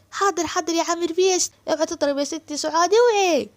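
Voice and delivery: high, loud complaining servant voice; jealous servant boy. Acted. Amer protesting that Asem wants to marry Suad, high jealous whine.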